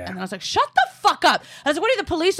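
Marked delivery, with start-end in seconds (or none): 0.4-1.4 high, drawn-out mock scream; losing it. Cyclist to three guys outside a pizza place, losing it. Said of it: "I just lost it". 1.8-2.4 high-pitched indignant retort, no real volume; mock screaming. Cyclist challenging three guys, mock screaming. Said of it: "I'm screaming at them".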